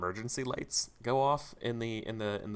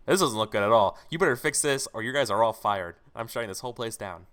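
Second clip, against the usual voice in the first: angry boss; 7 dB louder than usual. Acted. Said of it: "the C E O goes like".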